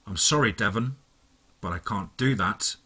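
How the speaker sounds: lightly voiced cold villain on the phone; a hint of a cold, polite villain; calm villain. A narrator's reading.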